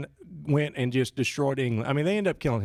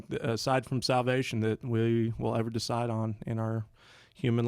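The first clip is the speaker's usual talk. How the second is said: prayer. Acted. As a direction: pray sincerely, head bowed. Opening prayer.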